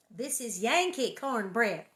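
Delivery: lightly voiced friend, dismissive; quoting southern friends. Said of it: "as my southern friends call it".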